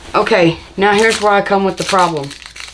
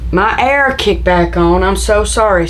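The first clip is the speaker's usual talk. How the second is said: ordinary talk, nothing marked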